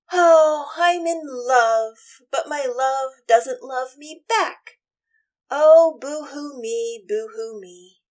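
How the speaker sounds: slow, loud mock-lovesick whine; whining. A narrator's reading. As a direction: whine it out like a sulky lover. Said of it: "he starts whining".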